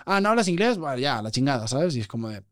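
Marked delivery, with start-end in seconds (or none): 0.1-0.8 higher, dismissive put-on tone; mock snooty Englishman. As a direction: sneer lightly at a foreigner's English. Imitating dismissive English people.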